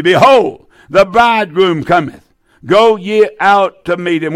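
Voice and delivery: punched "Behold" at the start; crying out. Acted. Preacher leading listeners in the midnight cry, crying out. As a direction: proclaim it for others to join in. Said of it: "There was a cry made".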